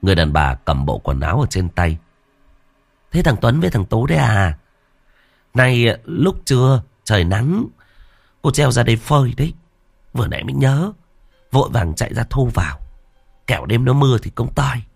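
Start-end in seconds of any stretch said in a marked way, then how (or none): 3.1-14.8 higher, chatty auntie voice; a busy aunt explaining herself; village woman. Acted. Village woman explains her laundry to the boys, chatty and higher.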